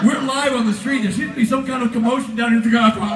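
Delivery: live on-scene reporter, a bit fast; news reporter voice. Retold or imitated. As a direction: play a TV field reporter. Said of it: "The news camera, like".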